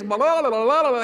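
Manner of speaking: run-together mock babble; nonstop chatter. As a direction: imitate a driver who never stops talking. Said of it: "like, talking from the moment I hit".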